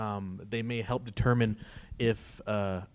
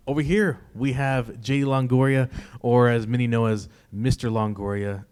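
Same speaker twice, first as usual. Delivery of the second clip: announcer voice; 5 dB louder than usual. Real, not acted. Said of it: "I sound like an announcer".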